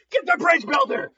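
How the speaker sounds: acted attacker's urgent shout; urgent order. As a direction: yell the order mid-fight. Acting villain urging attack.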